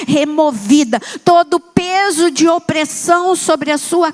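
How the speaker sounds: slow, weighty prayer over the families; fervent prayer. Real, not acted. Pastor praying over the church's families, slow and fervent. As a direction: declare it like a blessing, slowly.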